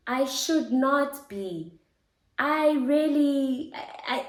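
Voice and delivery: holding back tears while speaking; after crying. Real, not acted. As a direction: voice teary and high, slowed. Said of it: "if I get a bit teary".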